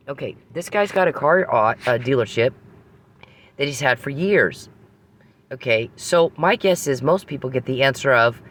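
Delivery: high, loud and exasperated; can't believe how stupid this is; incredulous rant. Real, not acted. Woman ranting to viewers about a simple oil question, exasperated.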